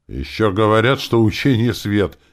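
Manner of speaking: outraged outburst at the table; blurted out angrily. A narrator's reading. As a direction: fire it out in one burst. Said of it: "выпалил Володя".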